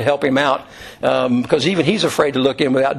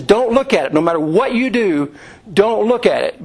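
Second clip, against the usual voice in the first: higher, emphatic movie-hero warning; mock yell, pitched up; retold urgent warning; 5 semitones higher than usual. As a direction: act out a desperate order, only half shouted. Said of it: "he's still yelling at her".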